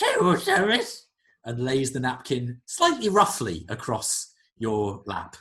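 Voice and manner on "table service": very high, loud, put-on creature host voice. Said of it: "and then says".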